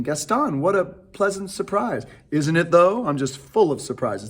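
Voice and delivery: a hint of stage dialogue; lightly acted scene. Director previewing Gaston and Belle's scene, lightly acted. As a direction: lightly play both sides of the exchange. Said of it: "we're gonna do that scene".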